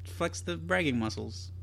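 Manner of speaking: meek and sheepish apology; modest voice. Real, not acted. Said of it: "the modest voice".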